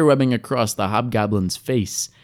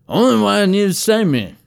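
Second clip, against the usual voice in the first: higher and louder, words run together; repeated louder with the words mashed; words smooshed together; 9 semitones higher, 3 dB louder than usual. A narrator's reading. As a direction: blur "Only what I need to sustain me" into one run. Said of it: "He smooshed his words together".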